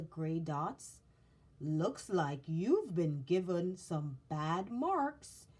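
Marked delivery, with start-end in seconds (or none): 1.6-5.5 slow, thoughtful observation; a gentle, considering carver. Acted. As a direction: muse over it slowly. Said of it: "the maker spoke thoughtfully".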